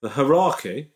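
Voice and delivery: questioning echo of hierarchy as "huh-RAR-key"; hierarchy botched as "huh-RAR-key", quizzically; mispronounced hierarchy. Retold or imitated. Mimics co-host's botched word.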